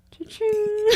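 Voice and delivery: high, soft cha-ching; a rat gloating in a thin voice; rat's cha-ching. Retold or imitated. Rat flaunting its gold tooth, high soft cha-ching. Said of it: "it said".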